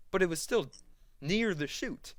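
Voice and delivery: high, loud insistent comeback; mock protest. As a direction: act out refusing to let it go. Acted argument over blame.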